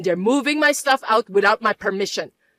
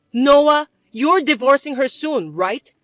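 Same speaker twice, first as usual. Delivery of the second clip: pushy demand; 3 semitones higher, 5 dB louder, slower than usual. Acted. Mother pressing son to divorce.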